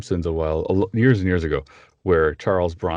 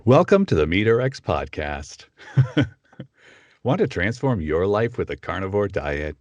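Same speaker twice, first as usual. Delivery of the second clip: lightly raised podcast intro voice; podcast voiceover. Shown as a demonstration. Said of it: "tried to get more normal male sounding".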